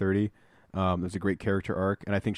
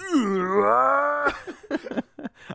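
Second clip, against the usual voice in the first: high death wail that builds; imitated building scream. Gamer showing how the death scream builds, imitated scream. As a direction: let a mock game scream climb. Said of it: "He builds".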